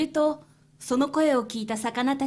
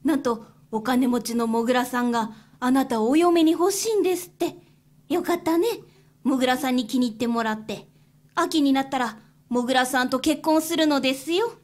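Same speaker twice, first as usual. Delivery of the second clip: lightly voiced kind old aunt; kindly field mouse aunt. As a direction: welcome her in gently.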